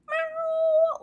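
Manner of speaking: very high squeaky meow; a small high-pitched imitated meow; high cat meow. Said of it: "Bert's like".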